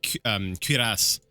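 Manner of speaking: put-on French accent. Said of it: "dip into French and be like".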